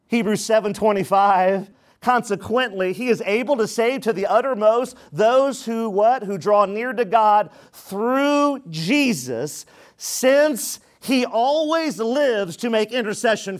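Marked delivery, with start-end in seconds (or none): 2.0-13.6 slow, emphatic scripture reading; deliberate preaching cadence; scripture proclamation. Real, not acted. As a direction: proclaim the verse, stretching key words. Reads scripture to congregation.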